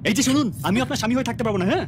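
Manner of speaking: parroting her words back; mocking echo. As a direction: echo her phrasing as a tit-for-tat retort. (পাল্টা ভেংচি কেটে বলা)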